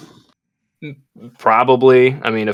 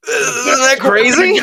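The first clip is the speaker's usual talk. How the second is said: excited; 14 semitones higher, slower than usual. Real, not acted. Excited guest announcement.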